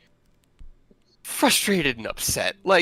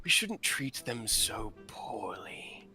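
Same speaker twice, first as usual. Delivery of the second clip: calm commanding stranger; 5 dB quieter than usual. Acted. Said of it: "not loud voice, but commanding voice".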